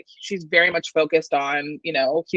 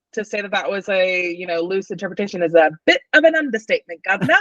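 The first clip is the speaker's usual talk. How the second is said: put-on British accent. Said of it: "talking in a British accent".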